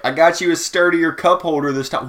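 a lightly voiced cheerful worker; quoting the boss. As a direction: chirp it out like a proud server. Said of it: "she was like".

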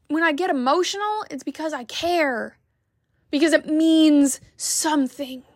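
fighting back tears while she talks; near tears. Real, not acted. Vlogger to viewers, holding back tears. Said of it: "I wasn't gonna cry".

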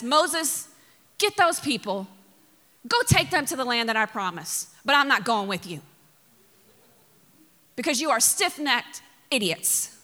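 acted-out exasperated dismissal; a touch of anger in a firm order; scolding. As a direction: scold mildly, like a fed-up parent. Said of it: "when you're scolding someone".

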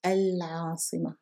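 العاصمة begun afresh with a clear al; a pronounced after pause. Shown as a demonstration. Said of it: "Here we paused". (العاصمة with its full article al)

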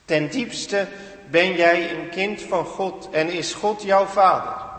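slow, assured inner voice speaking "Zo is het ten diepste"; the Spirit's inner voice. Acted. Preacher voicing the Spirit telling you you are God's child, slow and assured. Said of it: "De Geest is een stem in jou die zegt".

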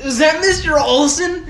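asking while laughing; slow words through laughter. Real, not acted. Laughing at voicemail.

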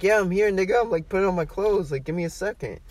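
acted harried phone answer; hassled reply. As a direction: fend the caller off while scrambling.

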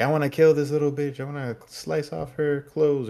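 high, hammed-up villain voice, slowing; mock the aunt's murderous threat in a put-on voice; menacing aunt voice. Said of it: "she's like".

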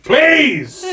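high, put-upon gnome servant; obey in a little gnome voice, then plead for manners; gnomey voice. Acted. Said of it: "your little gnomey voice".

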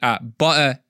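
"Mate" and "butter" said the Aussie way; Australian accent. Shown as a demonstration. Still working on how they say it, Australian accent. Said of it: "They say".

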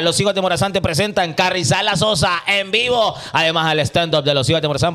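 upbeat radio ad read; hyped promo announcer. Acted. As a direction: sell it like a radio commercial.

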